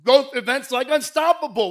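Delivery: imitation of a show-off suitor; boastful list. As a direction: rattle off the brags with gusto.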